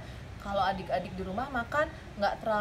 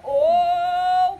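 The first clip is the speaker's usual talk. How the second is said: loud startled oh; a sudden loud oh of alarm; mother caught off guard; surprised gasp; 5 semitones higher, 9 dB louder than usual. Acted. Mother sees overflowing bath.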